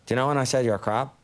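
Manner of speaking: low-key imitated Dublin accent; Irish little kid. Kid giving final verdict, understated Dublin accent. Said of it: "the kid came up to me".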